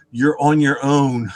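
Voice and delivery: slow retold refusal breaking into laughter; amused brush-off. Colleagues refusing to help over the radio, amused. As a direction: drag it out, then laugh.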